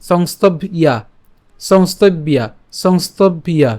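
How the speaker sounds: "সংস্তব", then "ইয়া" as a separate piece; split pronunciation. Shown as a demonstration. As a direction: break slightly before "ইয়া" in "সংস্তব ইয়া". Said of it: "এবং তার সাথে আকার আছে".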